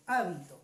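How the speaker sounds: hábito stressed on its opening á; stress on the first syllable. Shown as a demonstration. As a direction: say hábito with the weight on HÁ. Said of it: "Cuando le ponga la tilde en la primera A". (hábito acentuado en la primera a)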